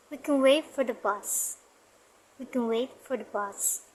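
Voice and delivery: "wait" and "bus" clear, "We can" and "for the" faint; strong and weak forms. Shown as a demonstration. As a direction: stress "wait" and "bus", pass lightly over "for the". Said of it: "Wait and bus pronounce clearly".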